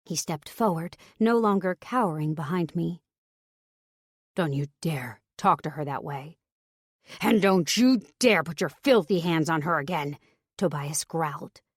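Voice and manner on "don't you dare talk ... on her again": stern. Acted. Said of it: "his voice suddenly stern".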